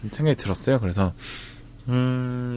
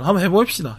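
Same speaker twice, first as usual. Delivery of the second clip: higher-pitched Busan satoori lilt; Busan dialect; 8 semitones higher than usual. Retold or imitated. Quoting a never-give-up spirit in Busan dialect. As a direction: say it with a Busan accent's pitch swing. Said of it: "부산 사투리로".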